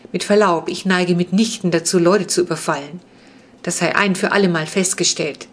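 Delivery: a touch of offended dignity, firm; the vampire boy correcting the children, a bit offended; firm, slightly offended. Acted. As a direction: set the record straight, mildly huffy. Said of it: "Seine Stimme klang bestimmt und fast ein wenig beleidigt".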